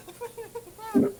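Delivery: high fast whispery whimper; frantic whisper. Acted. NPC whispered rush.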